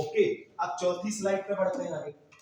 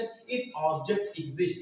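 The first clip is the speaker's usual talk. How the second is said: reading the rule slowly; 2 semitones lower, much slower than usual. Shown as a demonstration. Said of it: "क्या लिखी condition?".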